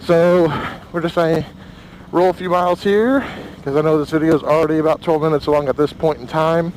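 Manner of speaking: talking inside a helmet in the wind. Real, not acted. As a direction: voice through helmet mic on a ride. Riding with helmet-mounted camera.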